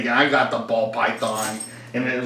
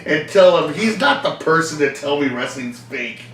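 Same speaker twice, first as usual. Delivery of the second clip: mock indignation; 4 semitones higher, 4 dB louder than usual. Mock outrage over wrestling fake.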